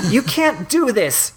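very high, slow, distressed cry; acted high-pitched shout; shouted protest. A narrator's reading. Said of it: "shouted Octavia".

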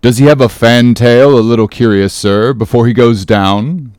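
measured, careful question; deliberate. Acted. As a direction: ask it with deliberation, unhurried at the end. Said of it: "said the gay header deliberately".

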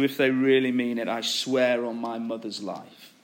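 low, earnest playground oath; grave, understated vow. Acted. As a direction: swear it as if you mean it. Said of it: "he gets more serious".

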